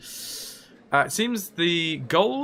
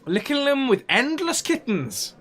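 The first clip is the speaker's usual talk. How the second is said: silly high voice; 11 semitones higher than usual. Pretend. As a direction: go up high and goofy.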